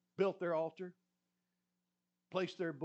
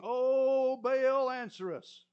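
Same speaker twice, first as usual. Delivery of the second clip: higher, louder plea to the god; calling out to Baal; 7 semitones higher, 9 dB louder, much slower than usual. Retold or imitated. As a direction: call on Baal, pleading.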